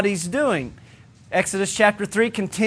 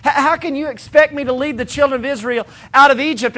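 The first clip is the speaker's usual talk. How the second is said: protesting Moses; 3 semitones higher than usual. Retold or imitated. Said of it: "He says".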